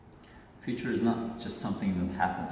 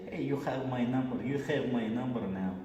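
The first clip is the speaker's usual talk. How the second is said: higher-pitched imitated Russian accent; Russian-accented come-on, pitched up at the start; 3 semitones higher than usual. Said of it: "that was the Russian accent".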